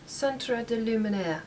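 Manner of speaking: put-on slow, deliberate French accent on the product name; bad French accent. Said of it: "bad French accent".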